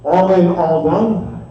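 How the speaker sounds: rolling rhythmic auction chant; auctioneer. Real, not acted. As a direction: rattle off the bids in a steady chant. Live auction bid calling.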